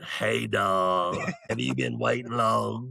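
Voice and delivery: lightly voiced old smoker woman; a hint of an old woman who smokes. Old woman greeting her date at the coffee shop, lightly voiced smoker. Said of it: "I'm gonna do her voice one time".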